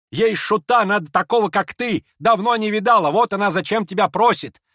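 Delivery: high, loud mocking rant; scornful tirade. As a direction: sneer at him fiercely. Lizaveta mocks the prince.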